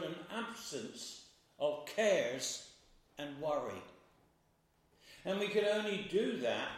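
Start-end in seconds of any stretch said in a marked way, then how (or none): 0.0-2.7 slow, deliberate weight on "absence"; stress on absence. Real, not acted. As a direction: lean on "absence", taking the phrase slowly. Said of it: "I stress the word".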